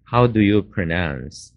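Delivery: slow, careful classroom read; polite way to ask, said slowly; polite model question. Shown as a demonstration. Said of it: "这个字你怎么发音呢".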